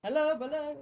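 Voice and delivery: high, loud cartoon gecko greeting. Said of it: "make it talk like the gecko".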